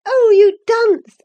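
loud, high, drawn-out jeer; mocking amusement. A narrator's reading. Catherine mocks her cousin's failure to read, gleeful jeer. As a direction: jeer at them, stretching it out high. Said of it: "laughing heartily at his failure".

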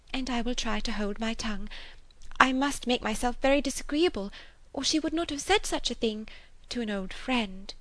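high, hurt, humbled voice; Miss Bates. A narrator's reading. Spinster turning to a friend, pained and high. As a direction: soften away on the last words, wounded. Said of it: "that it could pain her".

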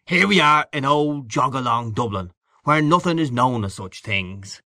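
knowing, worldly man, lightly voiced; hearty boastful Gallagher figure. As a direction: confide racy tales with a touch of swagger. Gallagher on old Dublin.

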